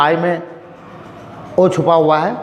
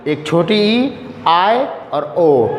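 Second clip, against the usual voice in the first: slow demo; 3 semitones lower, much slower than usual. Shown as a demonstration. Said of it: "आई में चार sound".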